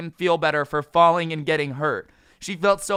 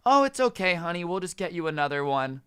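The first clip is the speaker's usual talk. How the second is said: mom's voice; 3 semitones higher than usual. Retold or imitated. Mom soothing spoiled son.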